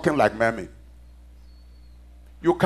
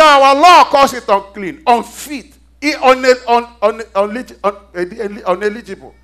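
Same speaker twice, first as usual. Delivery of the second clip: raised voice, stumbling into the hard word; emphatic preaching; 6 semitones higher, 8 dB louder than usual. Acted. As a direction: preach the objection with force, then ease off. Preaches Peter's objection forcefully.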